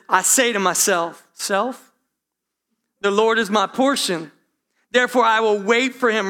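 firm self-sermon, building; preaching to himself. Retold or imitated. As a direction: preach it to yourself with rising conviction. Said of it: "he's preaching himself".

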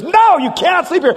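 high-pitched mock outrage; retold fed-up sibling yell; exasperated refusal. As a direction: refuse your brother point-blank, voice jumping up. Acted bedtime quarrel between brothers.

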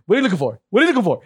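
high-pitched needling imitation; mock pestering. Mimics friend badgering searching cop.

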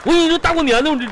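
high, hurried whine near tears; wounded, whimpering protest; tearful complaint. Acted. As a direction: threaten while on the verge of crying. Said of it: "行，行，别哭了".

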